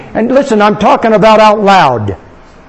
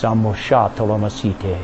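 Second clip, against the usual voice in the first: quiet murmured glossolalia; soft tongues; 9 semitones lower, 9 dB quieter than usual. Real, not acted. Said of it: "other tongues".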